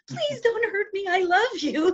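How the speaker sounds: high-pitched begging as the dog; pleading dog. Retold or imitated. Cowed pit bull to the woman, high-pitched pleading. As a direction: voice a submissive dog pleading for mercy. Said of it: "And it's like".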